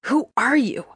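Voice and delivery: hoarse, rough and high. A narrator's reading. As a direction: croak it out, rough-throated. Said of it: "my voice rough".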